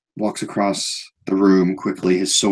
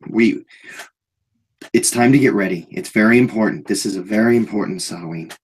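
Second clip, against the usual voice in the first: odd eager guard; 3 semitones higher than usual. Acted. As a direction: brush off trouble, get excited. GM voices Anton.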